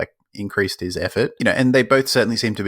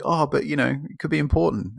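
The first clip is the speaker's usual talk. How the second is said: higher whiny Larry; 5 semitones higher than usual. Retold or imitated. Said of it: "Larry's like".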